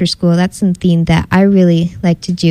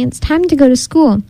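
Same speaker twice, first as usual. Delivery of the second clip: mildly gentle, higher-pitched nudge; gentle coaxing; 7 semitones higher than usual. A narrator's reading. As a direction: nudge an upset friend along kindly. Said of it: "Lolly said gently".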